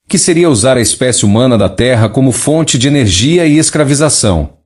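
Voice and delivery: even synthetic neural TTS voice; a message read by a speech synthesizer. Real, not acted. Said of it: "usando um sintetizador de voz neural para ler a mensagem canalizada original". (voz de sintetizador neural)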